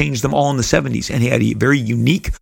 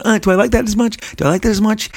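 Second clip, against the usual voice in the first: higher, lightly voiced skeptical wondering; doubtful musing; 10 semitones higher, faster than usual. Rob recalling his doubt about the new costumes, lightly skeptical. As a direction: question it half to yourself, unconvinced. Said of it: "I remember at the time going".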